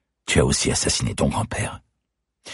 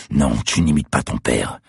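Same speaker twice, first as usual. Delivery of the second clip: forced assurance. Acted. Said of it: "essayant de planter de l'assurance dans ma voix".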